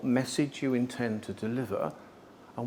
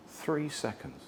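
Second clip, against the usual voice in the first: "Three seconds" dropped to a near hush; hushed repetition; 3 semitones higher, 6 dB quieter, slower than usual. Shown as a demonstration. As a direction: repeat "Three seconds" softly, for weight. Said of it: "and I am three seconds".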